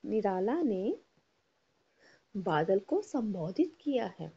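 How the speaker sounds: sing-song classroom recitation; teacher leading choral reading; repeat-after-me tone. Shown as a demonstration. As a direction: lead the class line by line. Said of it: "बोलिए मेरे पीछे".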